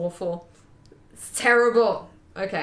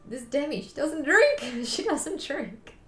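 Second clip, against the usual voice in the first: mock introduction; 6 semitones higher, slower than usual. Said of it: "get introduced as".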